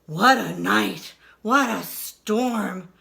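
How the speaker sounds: muttering mole. Acted. Mole coming in from the storm, a low grumble. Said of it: "Mole mutters".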